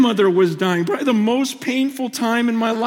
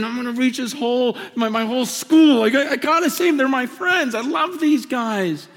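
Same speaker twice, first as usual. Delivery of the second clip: retold fervour. Voicing his passion for college friends.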